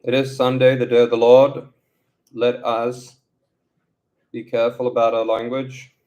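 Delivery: loud, lightly preacherly reminder; mock pious announcement. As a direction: proclaim it like a Sunday sermon. Mock pious reminder after swearing.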